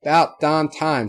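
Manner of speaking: loud Southern shout; yelled from the back. A narrator's reading. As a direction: holler it across the room. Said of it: "someone in the back yelling out".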